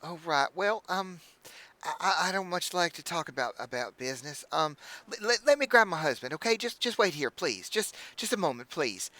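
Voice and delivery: high, gushing hostess voice; bubbly halfling innkeeper. Acted. Innkeeper welcoming the party, high and gushing. Innkeeper dodging business talk.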